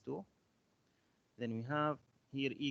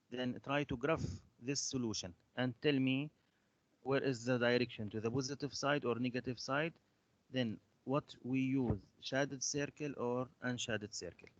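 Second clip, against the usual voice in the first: louder, projected teacher instructions; raised voice; 4 dB louder than usual. Real, not acted. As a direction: speak up so the class can hear. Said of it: "your voice is so low".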